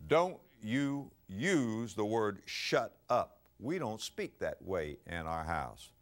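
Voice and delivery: a hint of a stern father, very slow and deliberate. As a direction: lay down the house rule slowly. Father scolds kids in story.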